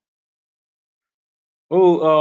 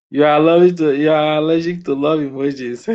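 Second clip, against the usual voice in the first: teasing call-out; 2 semitones higher, 6 dB louder than usual. Real, not acted. Streamer echoing a viewer's joke, loud and teasing. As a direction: call the line back loudly, teasing.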